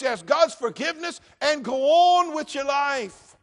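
a pastor shouting the congregation toward forgiveness; full-force preaching. Acted. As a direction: drive it home like a revival preacher.

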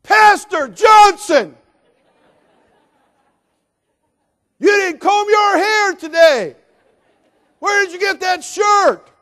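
put-on shrill yelling teenage girl, very high and loud; teenager yelling. Teen girl shouting at pastor across store, high loud yell. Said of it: "and she goes".

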